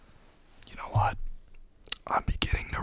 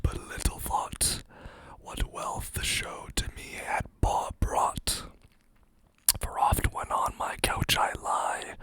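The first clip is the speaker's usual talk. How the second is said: whispered poem reading. Acted.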